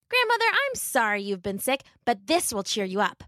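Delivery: put-on bright girl cheering her granny; cheerful little girl. Little Red comforting grandmother, happily. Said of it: "she said happily".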